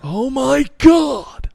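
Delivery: high, drawn-out shriek of disbelief; shocked outburst. Real, not acted. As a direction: scream it in disbelief. Shocked reaction to joke.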